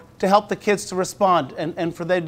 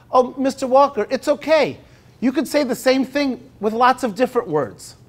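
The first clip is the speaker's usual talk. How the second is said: put-on higher, brighter eager child's voice; eager student; 5 semitones higher than usual. Teacher quoting a student who pops up, lightly voiced eager child. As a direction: pipe up like a keen pupil. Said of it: "she immediately pops up and says".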